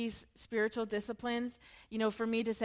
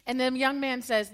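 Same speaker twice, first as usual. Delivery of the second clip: normal talking voice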